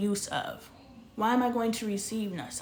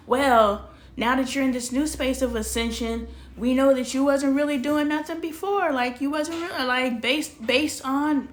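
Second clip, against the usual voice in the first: self-persuading pep talk; 3 semitones higher, 4 dB louder than usual. Retold or imitated. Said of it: "I keep selling myself on".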